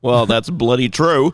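put-on slow, loud comic English accent; a drawn-out stab at English accent; mock English accent. Pastor agreeing with co-host, mock English accent. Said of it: "English accent".

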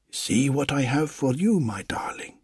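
tender husband. Acted. Husband shows wife gift.

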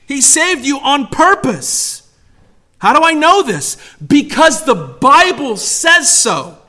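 slow, punched preacher's declaration; emphatic preaching. Real, not acted. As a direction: drive each phrase home slowly.

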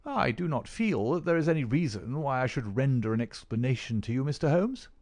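indignant refusal, tightly held; angry. Acted. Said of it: "The doctor flushed with anger".

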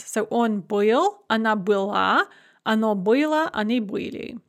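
была stressed on the end, был and были on the stem; shifting stress demo. Shown as a demonstration. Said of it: "Быть itself has a shifting stress in the past".

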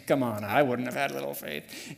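low, self-assured brush-off; scoffing dismissal. Acted. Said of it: "just kinda read through it and go".

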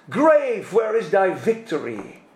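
quoting in English; English quote. Retold or imitated. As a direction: recite the English verse. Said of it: "zegt hij".

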